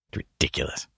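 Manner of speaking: low flat deadpan. Acted. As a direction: mutter it dryly. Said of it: "repeated line".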